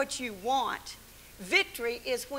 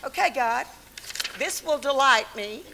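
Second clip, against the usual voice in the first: mock demanding prayer; 6 dB louder than usual. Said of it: "you make out your list".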